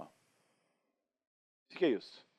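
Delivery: voz baixa e lenta, intrigada; quiet puzzled mutter. Retold or imitated. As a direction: pergunta bem baixinha e arrastada. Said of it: "Ele fez assim, ó". (imitando o câmera, baixo e devagar)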